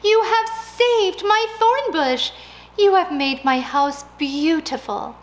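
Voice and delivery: high, loud delighted thanks; bubbling gratitude; grateful old lady beaming to the policeman; overjoyed. Acted.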